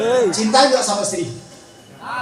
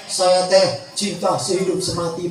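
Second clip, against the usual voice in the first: mock love vow; 5 semitones lower than usual. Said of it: "ngomongnya teh".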